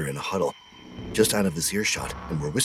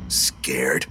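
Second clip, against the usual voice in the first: mocking breathy whisper of the word Scared; taunting whisper; 5 semitones lower than usual. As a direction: hiss Scared back in a whisper. Echoed as whisper.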